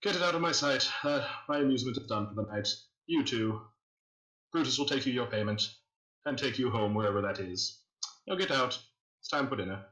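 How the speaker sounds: lightly voiced imperious dismissal; cold villain host. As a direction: dismiss them like a bored tyrant. Host dismisses party coldly.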